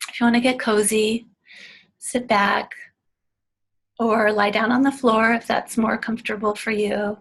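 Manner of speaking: unhurried, with long restful pauses; spacious meditation-leader delivery, plenty of silence between phrases; guided meditation. Real, not acted. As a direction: ease listeners into a meditation, phrase by phrase.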